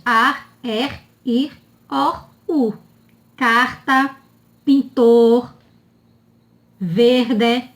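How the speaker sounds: each item separate, final R clear as in "pintor"; syllable-final R. Shown as a demonstration. Teacher reviewing end-of-syllable R, clearly sounded. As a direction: sound the R closing "ar" and in "Carta". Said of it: "R no final de sílabas".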